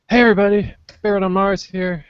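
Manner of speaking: wrong intro. Pretend. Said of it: "Nope, that's not it".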